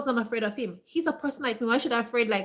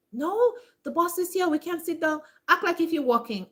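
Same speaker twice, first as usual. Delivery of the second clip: higher-pitched protest, imitating worried staff; mock anxious coworkers; 6 semitones higher than usual. Scared staff answering her call to sit down, mock anxious. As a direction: act out flustered workers refusing to sit.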